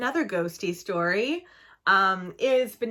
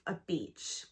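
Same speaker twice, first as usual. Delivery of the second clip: normal talking voice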